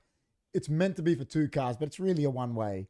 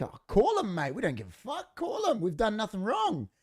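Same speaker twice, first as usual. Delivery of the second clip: much higher, mocking bratty teen voice; taunting teen mockery; 6 semitones higher than usual. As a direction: sneer it like a defiant teenager. Teens daring him to call police.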